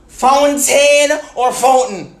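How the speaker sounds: "fountain" first as foun-TAIN, then as FOUN-tn; contrasting pronunciations. Shown as a demonstration. Challenging viewers on "fountain", slow contrast of both pronunciations. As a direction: draw out the first "fountain" high, reduce the second. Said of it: "How you say this word?".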